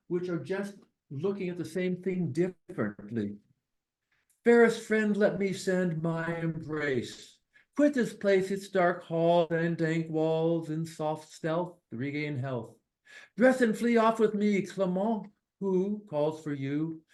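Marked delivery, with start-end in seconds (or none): 4.4-5.1 louder, higher opening of the verse; opening poem line. Acted. 5.1-17.0 slow, lilting reading of light verse; poem reading. Acted. Reads translated poem aloud.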